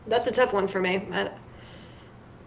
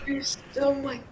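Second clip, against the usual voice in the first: mock Connor pause; 2 semitones higher, 4 dB quieter than usual. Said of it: "He, like, pauses mid-word".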